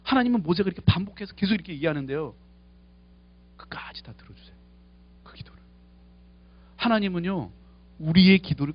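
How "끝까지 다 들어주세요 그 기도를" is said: hushed whisper, voice dropped right down. Acted. Preacher whispering to his congregation about God's patience. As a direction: breathe it to the congregation like a secret.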